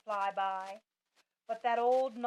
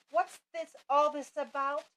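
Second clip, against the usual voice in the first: shouting; 4 semitones higher, 5 dB louder than usual. A narrator's reading. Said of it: "the people came shouting".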